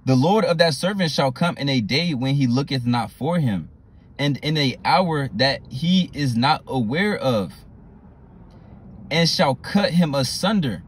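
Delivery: slow, weighty Bible reading; scripture reading. Acted. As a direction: read the verse slowly like a warning.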